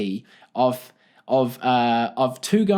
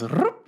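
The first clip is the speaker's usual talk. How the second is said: "rup" flicked upward like a question; "rup" as a quick imitation of a rising Kiwi ending; rising end intonation; 2 semitones higher than usual. Shown as a demonstration. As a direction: make "rup" a little upward flip of the voice. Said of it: "my intonation at the end just kinda goes".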